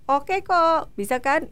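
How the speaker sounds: imitated approving encouragement; Adi. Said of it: "mengapresiasi itu". (memuji, menyemangati dengan nada naik)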